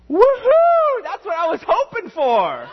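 put-on high, loud child's whoop of delight; gleeful cheer. Little son cheering that the restaurant closed, delighted whoop. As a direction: cheer like a kid whose wish came true.

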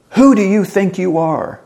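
high, loud indignant challenge; angry yell. Acted. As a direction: fire it off as an angry rhetorical question. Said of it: "when we're angry, we say or even yell".

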